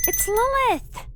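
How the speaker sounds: loud, high, slow insistent correction; indignant correction. Acted. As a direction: hit the name hard, offended. Correcting her mangled name.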